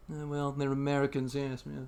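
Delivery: lightly voiced dismissive European; 聞こえるように呆れた感じで、軽く; snooty Europeans. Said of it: "other people were being like".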